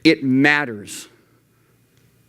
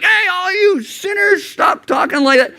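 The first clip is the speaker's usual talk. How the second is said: mock preachy shout. Teen scolding friends as sinners, hammed-up shout. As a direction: play the finger-pointing street preacher. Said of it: "you have to be like".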